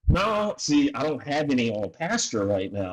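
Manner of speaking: a quick high hum before the farmer's no; a hint of the farmer turning him down; lightly voiced farmer. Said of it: "And he was like".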